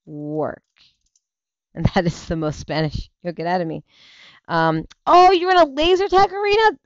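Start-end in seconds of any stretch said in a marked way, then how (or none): 5.1-6.8 high surprised question. Real, not acted. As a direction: react with real surprise. Surprised reaction to comment.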